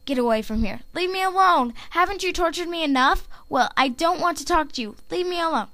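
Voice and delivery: distressed plea, pitched high; Skywatcher. Acted. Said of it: "And now here is my Skywatcher".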